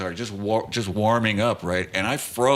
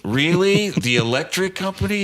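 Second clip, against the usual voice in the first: high, louder disbelieving question; mock amazement with a laugh just before; incredulous; 8 semitones higher, 3 dB louder than usual. Storyteller reacts to his friend's cover story, incredulous. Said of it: "And I said".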